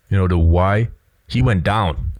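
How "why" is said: "why" with the pitch going up at the end; rising question tune. Shown as a demonstration. Showing how people usually ask a question, "why" rising at the end. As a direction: lift "why" upward like an ordinary question. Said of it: "instead of going up with his voice".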